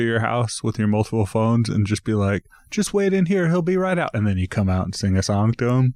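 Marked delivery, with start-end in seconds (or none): 2.7-4.1 higher-pitched acted-out quote; acted instruction. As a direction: call it out as if directing waiting drivers. Imagined instructions to waiting Uber drivers.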